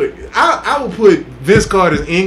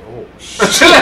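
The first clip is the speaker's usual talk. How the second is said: mock shock; 6 semitones higher, 6 dB louder than usual. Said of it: "teammate was like".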